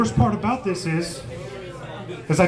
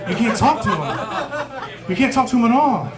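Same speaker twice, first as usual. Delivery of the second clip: higher, rising exasperation, laughs around it; exasperated objection; 6 semitones higher than usual. Acted. Comic arguing with his buddy's silly plan, exasperated objection.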